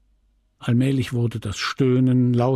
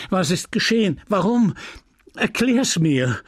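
higher-pitched, urgent questioning; urgent demand; 6 semitones higher than usual. A narrator's reading. Husband demands that his wife explain, urgent demand.

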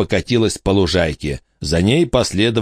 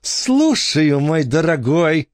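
strained voice; 9 semitones higher, slower than usual. A narrator's reading. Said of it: "несколько сдавленным голосом".

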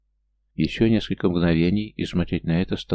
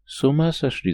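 high alarmed cry, pitched well up; shouting at the top of her voice; 9 semitones higher than usual. A narrator's reading. Leona shouting to stop the men fighting, high and alarmed. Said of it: "закричал Леона во весь голос".

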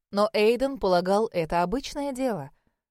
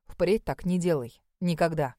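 firm; 3 semitones lower than usual. Acted. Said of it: "добавил твёрдо".

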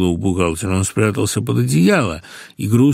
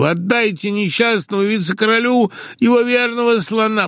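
much higher, wailing plea; 11 semitones higher than usual. A narrator's reading. Accountant suddenly wails for his elephant: high wail. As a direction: wail it out theatrically. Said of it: "сейчас же завопил".

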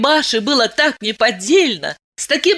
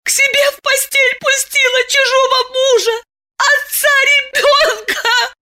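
sobbing; 3 dB louder than usual. Acted. Masha wailing to Diana, high sobbing shout. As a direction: wail it through tears. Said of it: "ещё горше зарыдала".

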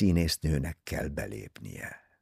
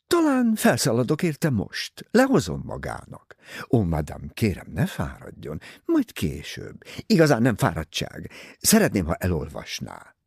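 Mrs Otterborn's voice; 2 semitones higher than usual. Acted. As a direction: play the vain novelist pressing her book. Mrs Otterborn insists on fetching book.

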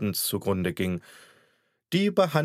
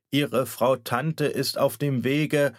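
halting doctor; 3 semitones higher, slower than usual. Acted. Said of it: "er schluckte mehrmals".

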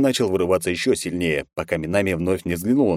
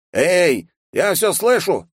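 higher, louder indignant call; old guard overhearing the insult; indignant old man; 12 semitones higher, 4 dB louder, much slower than usual. A narrator's reading. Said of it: "возмутился старик". (возмущённо, громко)

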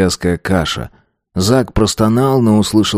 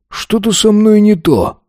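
much higher, slow alarm; alarmed cry; 11 semitones higher than usual. A narrator's reading. Zak dizzy and hurting.

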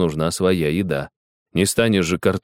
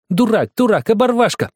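shrill insult; 5 dB louder than usual. Acted. Girl insulting boy, fleeing.

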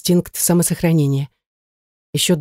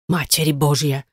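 frightened babble; 2 semitones lower than usual. Acted. Old neighbour mutters in fright hearing of bandits. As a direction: mutter it in fright, fingers at lips. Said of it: "залепетала она".

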